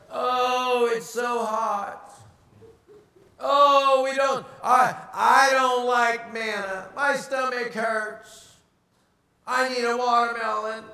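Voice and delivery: slow, drawn-out bellyaching whine; mock whining. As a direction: whine like a spoiled complainer. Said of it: "complaining and bellyaching is contagious".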